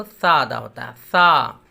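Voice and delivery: सा with the tongue tip on the teeth edge; th-like सा, held steady; lisped sa. Shown as a demonstration. Teacher repeats सा slowly for the class. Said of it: "ज़बान को ऊपर के दांतों से मिलाते हैं".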